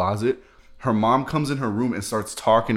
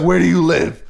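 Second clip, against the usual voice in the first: stern mom; 7 semitones higher, 7 dB louder than usual. Retold or imitated. Angry mom questions hidden boy.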